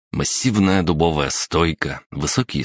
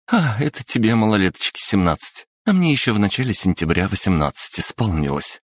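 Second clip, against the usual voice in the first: put-on higher, playfully smug girl; playful teasing; 5 semitones higher than usual. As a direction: tease him with a turned-up nose. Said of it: "шутливо задрала нос Юлия". (шутливо, задрав нос)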